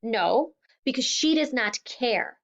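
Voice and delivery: a father's wounded, angry yell; angry shout. Acted. Father shouting back at daughter.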